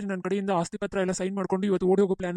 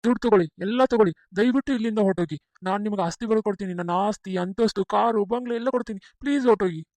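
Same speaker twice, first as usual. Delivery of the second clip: louder, begging desperately; loud pleading; 5 dB louder than usual. Acted. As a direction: plead loudly for her to go. Husband begging imposter wife leave.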